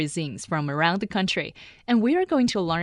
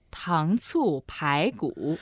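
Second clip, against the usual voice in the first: slow model; 2 semitones lower, slower than usual. Shown as a demonstration. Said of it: "Well, in Chinese".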